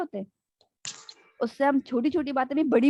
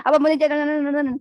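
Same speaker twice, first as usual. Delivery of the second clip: drawn-out, louder pleading; pleading to father; 3 semitones higher, 6 dB louder, slower than usual. Retold or imitated. Child begs father to go out, pleading. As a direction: stretch the words begging dad. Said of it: "اب ایسے بولتے ہیں".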